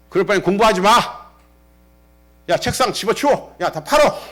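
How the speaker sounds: mock-scold a slacking child; imitated scolding.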